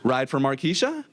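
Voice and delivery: lightly put-on polite white voice, hello lilting up; mock-courteous customer-service greeting; a touch of chirpy "white voice"; best white voice. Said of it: "in the best white voice that I can muster".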